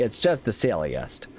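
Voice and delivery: slow, drawn-out Midwestern delivery; "It's just the silliest" drawled slowly in a Midwestern accent. Pretend. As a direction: stretch it out like a Midwest mom. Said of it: "really going hardcore on the whole Midwestern".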